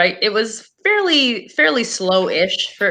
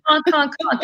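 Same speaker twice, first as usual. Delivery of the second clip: raised honks, duck imitation; duck honking voice; 7 semitones higher than usual. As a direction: honk like a duck for kids. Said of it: "The duck goes".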